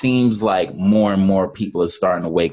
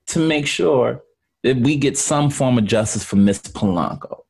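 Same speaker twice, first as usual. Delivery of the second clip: lawyer addressing jury; 5 semitones higher than usual. Pretend. Mock courtroom closing argument.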